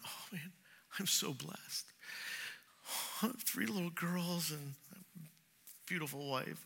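soft, whispered wonder at his family; hushed awe. Retold or imitated. Father whispering in awe at his dressed-up girls. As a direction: breathe it out in grateful awe. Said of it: "I looked and I went".

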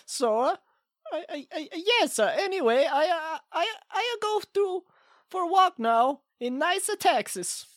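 hammy put-on Swedish accent; fake Swedish accent. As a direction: play a bad Swedish caller. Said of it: "this isn't a very good, uh, Swedish accent".

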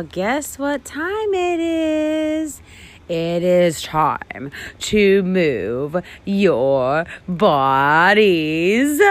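slow, drawn-out teacher reveal; singsong teacher announcement. Acted. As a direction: build excitement for the kids. Teacher announcing movement time.

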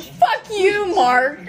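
high retold yell of relief and anger; hammed-up indignant outburst; mock outrage. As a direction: curse the teaser, pitch shooting up. Retold outburst after being teased.

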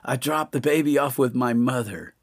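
retelling a woman calling out; woman's frantic voice. Retold or imitated. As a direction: quote her in a high, hurried voice. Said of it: "I hear her say".

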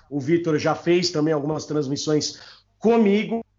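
hoarse, worn-out voice; voice giving out. Real, not acted. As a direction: talk through a voice that is giving out. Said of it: "desculpa pela voz, isso aqui é culpa do Tony Kroos".

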